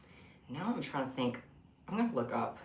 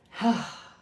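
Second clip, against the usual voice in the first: breathless sigh; 6 semitones higher, 8 dB louder than usual. Real, not acted. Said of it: "I'm out of breath".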